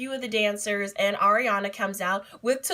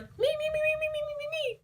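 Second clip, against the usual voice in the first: very high squeaky chant; eager me me me; 5 dB quieter, much faster than usual. Retold or imitated. Fan calling out to claim the shirt, very high. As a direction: plead to be picked.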